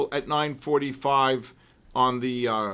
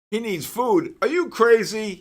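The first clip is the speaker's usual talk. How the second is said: higher and louder fond scolding of the dog; higher, louder mock-outraged pet talk; playful teasing; 9 semitones higher, 7 dB louder than usual. Real, not acted. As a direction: tease your pet, half laughing. Teasing his dog fondly.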